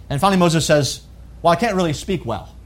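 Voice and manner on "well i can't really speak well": low, soft, reluctant retelling; meek excuse. Retold or imitated. Moses telling God he can't speak, low and sheepish. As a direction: play the hesitant excuse-maker quietly.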